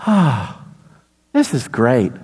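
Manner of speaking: low, blissful sigh of comfort; re-enacted childhood contentment; contented relief. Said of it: "I remember just".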